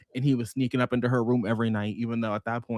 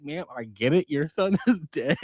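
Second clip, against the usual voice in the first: laughing mock reply; 3 semitones higher than usual. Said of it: "I wanna be like".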